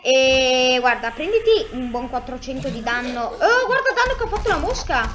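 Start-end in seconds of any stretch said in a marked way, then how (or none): 3.2-5.2 laughing amazement. Real, not acted. Amazed at fly damage.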